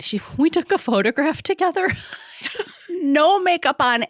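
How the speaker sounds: high, loud, through laughter; giggly high-pitched telling; laughing. Real, not acted. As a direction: laugh it out, embarrassed. Laughing recounting her tears.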